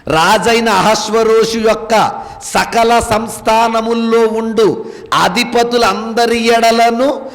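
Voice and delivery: slow, measured Bible reading; scripture reading. Acted. Preacher reading Esther to the congregation, slow solemn scripture reading.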